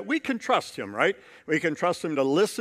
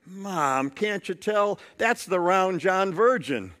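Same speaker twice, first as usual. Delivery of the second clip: put-on mildly exasperated child; lightly acted weary kid explaining the obvious; retold sigh of impatience at mom; sighing little girl; slower than usual. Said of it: "the girl just sighs and goes".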